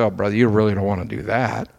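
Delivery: lightly voiced doubter smothering someone's passion; mock discourager. Preacher mimicking a churchgoer who cools others' zeal, mildly patronizing. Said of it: "don't let anybody come and say".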